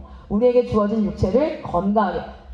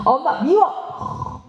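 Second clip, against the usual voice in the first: a slow, drawn-out whine, pitched up, lightly voiced; sulky child; 4 semitones higher, much slower than usual. Child whining back at mom after being scolded. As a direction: whine it like a kid who got told off. Child answers mother sulkily.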